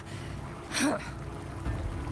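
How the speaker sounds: short breathy scoff; scornful huff. Acted. Threatening whoever would touch you.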